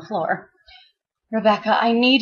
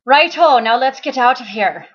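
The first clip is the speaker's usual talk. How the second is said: Ryan's voice; 4 semitones higher, 5 dB louder than usual. Acted. Ryan agrees.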